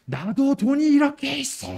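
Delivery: high-pitched mock yell of a boasting drunk; retold drunken shouting. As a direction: imitate a drunk hollering to show off. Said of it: "막 소리를 지르는 거예요".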